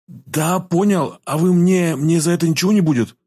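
high-pitched, anxious pleading; fearful. A narrator's reading. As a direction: ask in fear, voice pitched well up. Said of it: "со страхом в голосе спросил парень". (со страхом в голосе)

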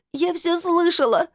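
high, slow crying yell; tearful shout. A narrator's reading. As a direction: hurl it at her through tears. Crying girl accuses, shouting.

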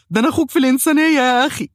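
very high, loud, frantic begging; panicked pleading. Retold or imitated. Patient begs the dentist under the drill, in frantic high pleading. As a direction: squeal for mercy.

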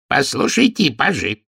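lightly voiced old master of ceremonies; quavering old man. Old master of ceremonies calls to the pages, lightly quavering. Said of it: "дребезжащим голосом".

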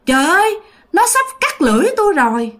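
high, mildly acted tearful wail; vừa khóc vừa nói. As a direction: lament as if crying. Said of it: "Vừa khóc vừa nói rằng á là". (giọng than khóc, lên cao)

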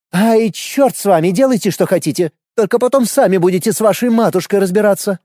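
high, slowish grudging nurse; grumbling nurse. A narrator's reading. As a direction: give in with a wave.

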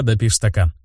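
usual speaking voice

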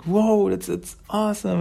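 high, happy amazement; delighted whoa. Retold or imitated. Old Hob holding Xana happily, high delighted voice. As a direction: marvel like a proud dad. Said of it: "he's like".

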